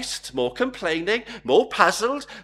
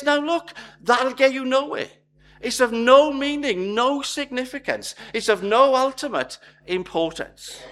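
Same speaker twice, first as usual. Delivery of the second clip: firm Jesus rebuke; 6 semitones higher than usual. Retold or imitated. Jesus telling the crowd it gets them nowhere, firm and raised. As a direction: lay it down hard, no meaning, no significance.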